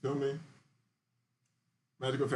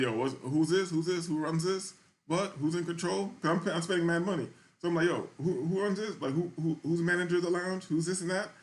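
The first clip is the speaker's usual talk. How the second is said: demanding, higher, imitating an entitled customer; mock-demand the manager in a raised voice; hammed-up white customer asking who runs this; white people voice; 5 semitones higher than usual. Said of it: "getting on my white people shit".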